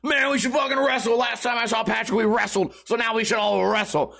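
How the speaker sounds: put-on high, insistent drunk-guy voice; drunk buddy. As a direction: lightly imitate a worked-up drunk pushing his idea. Acts out drunk friend demanding wrestling.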